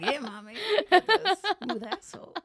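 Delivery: laughing, high, loud attempt at a Mexican accent; bad Mexican accent. Friend retells his lover's compliment to friends, bad Mexican accent. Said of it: "I'm not good at accents".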